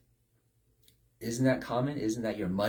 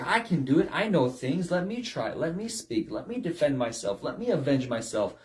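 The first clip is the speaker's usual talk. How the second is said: cocky, insistent boasts; proud self-reliance; 2 semitones higher than usual. Retold or imitated. Preacher mimics a proud man's boasts. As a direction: brag like you need no one. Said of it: "step out and say".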